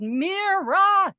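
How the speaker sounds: high, drawn-out calling yell. Retold or imitated. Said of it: "And I yelled".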